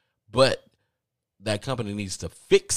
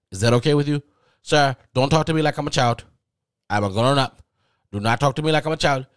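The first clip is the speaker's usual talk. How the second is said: loud, higher-pitched indignant protest; indignant retort; 6 semitones higher, 8 dB louder, faster than usual. Retold or imitated. Caller objects to being treated like a child, indignant. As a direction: push back loudly, as if talked down to. Acted quarrel with agent on phone.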